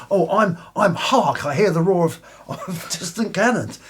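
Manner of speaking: put-on drunken befuddled reply. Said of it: "He said".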